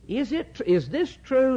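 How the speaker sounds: lightly voiced serpent feigning shock; mock serpent. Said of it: "Is what he's saying to her".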